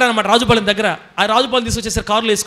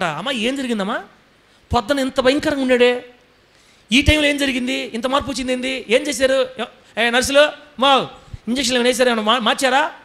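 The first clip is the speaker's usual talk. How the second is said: amazed doctor; 5 semitones higher than usual. Retold or imitated. Doctor voiced asking mother, amazed.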